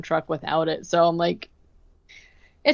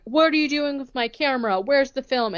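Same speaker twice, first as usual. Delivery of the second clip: a riled-up brother, pitched higher and quicker; brother freaking out; 6 semitones higher than usual. Retold or imitated. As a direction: demand your camera back in a half-played huff. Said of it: "Jacob, is like".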